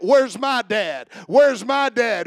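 drawn-out, imploring question, preached; child searching for dad. Acted. Family scanning the returning men for dad, acted searching call. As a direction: stretch out the question as a child looking for a father. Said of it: "can you imagine this comment?".

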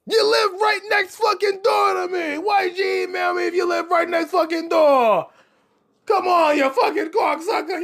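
high, screamed mock rant; hammed-up high-pitched outrage; angry yelling. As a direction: scream at the neighbor in exasperation. Acted quarrel with neighbor.

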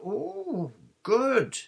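put-on high, delighted girlish excitement; loud, high-pitched eager pleasure; happy. A narrator's reading. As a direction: coo with delight, then chirp on. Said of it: "she said happily".

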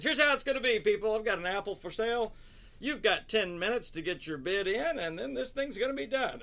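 pushy apple seller. Retold or imitated. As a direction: announce the rules to the crowd. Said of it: "He goes".

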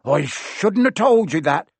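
lightly hammed-up blurt. A narrator's reading. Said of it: "he blurted out".

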